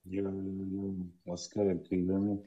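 soft, low mumble barely coming through; muttering low. Real, not acted. Caller on a bad line to the host, mumbling softly. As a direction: mumble so the host strains to hear. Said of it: "you're muttering so low".

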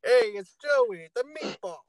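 lightly voiced goofy guy; high, slow silly voice; goofy character voice. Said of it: "That's just an example".

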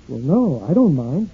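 ordinary delivery

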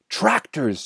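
high cry of alarm; shouted. A narrator's reading. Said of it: "shouted Mister Fox".

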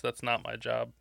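mocking quote. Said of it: "I hate that phrase".

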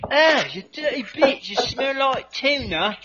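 put-on high, loud accented outburst of revulsion; hammed-up recoil in a put-on accent; mock disgust. Reacting to the sniff, mock disgusted outburst. Acted disgust in improvised commercial skit.

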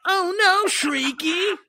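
high, loud cartoon bear in alarm; squeaky, hammed-up cartoon alarm; Care Bear. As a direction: cry out a warning like a panicked cartoon bear. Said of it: "You just turned into a Care Bear".

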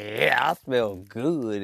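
slow, smug agreement; smug reply. Retold or imitated. Answering the flatterers with slow smugness. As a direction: drag it out self-satisfied. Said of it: "And you like".

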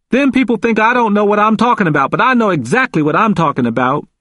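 high, insistent protest; defiant. A narrator's reading. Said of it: "He spoke defiantly".

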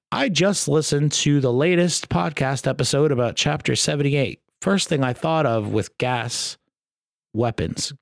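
stilted, halting read; halting cold read of awkward text; reading as written. Real, not acted. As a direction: read it word for word, stumbling over the missing words. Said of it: "I'm just reading it how it's written".

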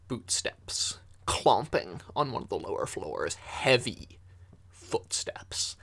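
hushed narration of heavy footsteps; game master whispering the danger; ominous whisper. Acted. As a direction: whisper it like a warning in the dark. GM sets an ominous scene.

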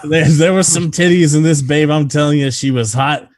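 high, loud, eager mock recounting; hammed-up testimony breaking into laughter; Ricky. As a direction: play an overexcited patient bragging to his doctor. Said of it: "imagine Ricky recounting the story to the doctor".

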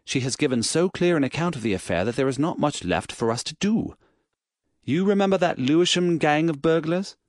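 put-on brisk, eager young police inspector; an alert inspector reporting quickly.

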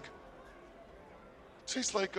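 drawn-out whisper; slow breathy whisper. Acted. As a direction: whisper it slowly for suspense. Dramatic pause before taste.

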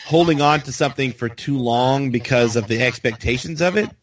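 rising tune at the sentence end; uptalk. Real, not acted. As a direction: lift the last words into a question. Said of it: "talking with an upward inflection at the end".

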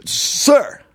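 high, stretched-out Southern rebuke; mock Southern accent. Southern clerk cutting off the customer, drawn-out drawl. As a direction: draw each word out in a mock Southern drawl. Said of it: "You're in the South now".

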